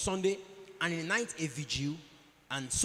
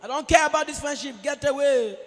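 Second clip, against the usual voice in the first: higher, louder brush-off; dismissive retort; 4 semitones higher, 3 dB louder than usual. Retold or imitated. Preacher acting a man rejecting his friend, loud and scornful. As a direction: wave the friend away with scorn. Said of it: "He say".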